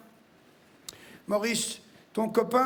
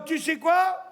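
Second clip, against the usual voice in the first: man after climax; 5 semitones higher than usual. Acted. Man chats right after climax.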